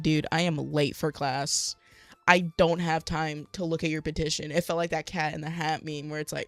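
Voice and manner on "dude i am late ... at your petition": louder, irritated mock retort; annoyed brush-off. Brushing off a petitioner, irritated and louder. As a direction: snap that you're late for class.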